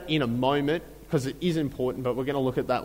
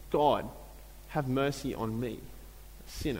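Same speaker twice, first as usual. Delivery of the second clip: humble plea; 4 semitones lower, 9 dB quieter than usual. Retold or imitated. Humble tax collector's prayer.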